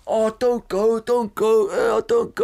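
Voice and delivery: high, whiny mock begging; mock pleading. Mimicking friends pleading with him.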